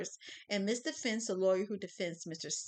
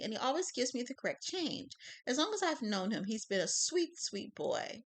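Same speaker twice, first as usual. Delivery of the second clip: put-on old lady voice; 4 semitones higher than usual.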